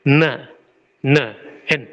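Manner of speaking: teacher's demo of na; Russian na. Shown as a demonstration. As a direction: repeat na, na with the N clear. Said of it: "this is going to sound like".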